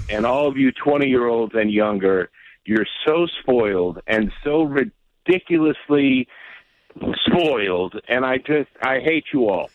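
beaten man, drained of anger; resigned. Real, not acted. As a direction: say it like a defeated, long-suffering fan. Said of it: "that's resignation right there".

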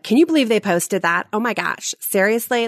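imitating catty, scoffing gossip; a light sneer at someone's photos; mock gossip. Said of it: "that is exactly how I probably sounded".

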